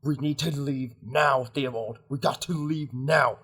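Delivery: companion pressing a friend to flee, insistent; pressing, agitated in-character urging; urgent rescuer. Acted. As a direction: hurry them out with short, repeated phrases.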